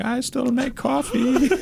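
high, slow mock barista with a laugh; mock forlorn barista. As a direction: squeak it out like a forgotten barista in the corner. Barista lost among dessert drinks.

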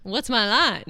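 even, measured newscaster read. Pretend. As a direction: read it like the evening news. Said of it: "sound like a newscaster".

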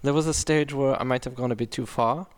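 hesitant attempt at a German accent. Shown as a demonstration. Co-host reading celebrity's quote on request, German accent. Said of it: "Oh, do the German".

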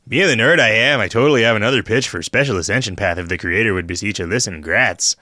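put-on overdone thick Minnesota accent, fast and loud; ridiculous Minnesota accent. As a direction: read it in a hammy Upper Midwest accent. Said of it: "talking in a ridiculous accent".

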